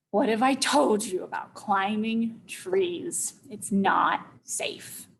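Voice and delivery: slow, measured reproach; mild scolding. Retold or imitated. Mom warns child about climbing trees, mild scolding. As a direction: lay it down slowly as a warning. Mother's scolding voiced in story.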